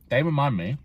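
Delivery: talking with a mouth full of food; words round a bite of food. Real, not acted. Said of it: "sorry, I speak with my mouth full".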